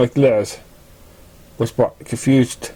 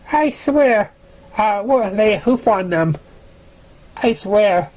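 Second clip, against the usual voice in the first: much higher, panicked plea; frightened pleading; 8 semitones higher than usual. Acted. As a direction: beg in fear, voice jumping up. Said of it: "Dantier cried".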